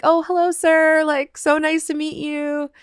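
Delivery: a touch of nervous courtesy; lightly voiced shy politeness; prim politeness. Polite greeting to Billy Ray.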